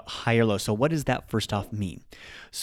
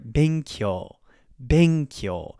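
"benkyou" low on "be", higher on "kyou"; low-high pitch accent; 3 semitones higher, much slower than usual. Shown as a demonstration. Teacher models an example word, "benkyou" going low to high. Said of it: "kyo is higher".

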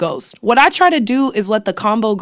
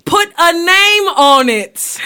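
higher, slow, laughing demand; laughing tease; 8 semitones higher, 4 dB louder, slower than usual. Real, not acted. Cousin teasing Raina to name names, laughing. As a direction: crack up while teasing.

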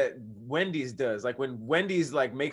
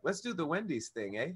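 light put-on Australian accent, a touch softer; tossing off a jokey Australian "eh?"; mock Australian accent; 8 dB quieter than usual. Voicing a clueless Burger King social media newbie in an Australian accent. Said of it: "Was that a British accent?".

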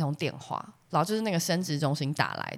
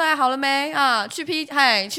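mock nagging; 7 semitones higher, 4 dB louder, slower than usual. Nagging husband to get leave.

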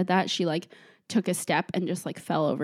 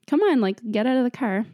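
higher, louder retold coaxing; mildly exasperated urging; urging the dog; 4 semitones higher, 3 dB louder than usual. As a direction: coax a hesitant dog along. Urging hesitant dog from car.

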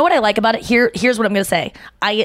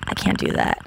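whispered; 6 dB quieter than usual. Real, not acted. After hearing the purr.

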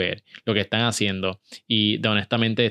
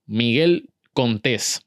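"Miguel Contés" said slowly, stressing the final -tés; retold slow introduction, leaning on "Contés"; emphasized surname; much slower than usual. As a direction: spell out "Miguel Contés" by slow, careful delivery. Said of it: "por eso hago énfasis en la".

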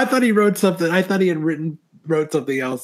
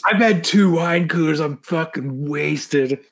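fake drunk voice; slower than usual. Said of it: "but just say you are".

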